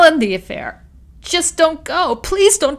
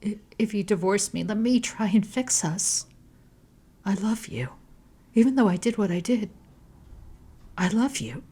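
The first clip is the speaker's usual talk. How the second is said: higher, pleading through tears; a tearful higher plea; sobbing plea; 5 semitones higher than usual. A narrator's reading. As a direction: beg her through the sobs.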